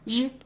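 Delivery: 日 as a buzzing French J; standard R sound. Shown as a demonstration. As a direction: say 日 like the middle of Asia. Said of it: "the English letter R is pronounced as".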